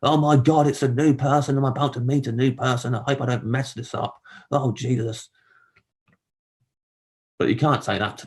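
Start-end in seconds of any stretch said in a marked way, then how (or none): 0.0-5.3 a touch of inner panic, pitched up; flustered inner voice on meeting someone; mild mock panic. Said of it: "what I'm thinking in my head is".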